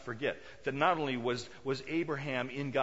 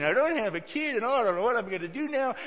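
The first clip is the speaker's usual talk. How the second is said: higher, louder self-pitying wail; mock pity party; 7 semitones higher, 7 dB louder, faster than usual. Abraham feeling sorry for himself before God, mock pity party. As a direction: play up the poor-me complaint. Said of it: "Abraham was in a pity party".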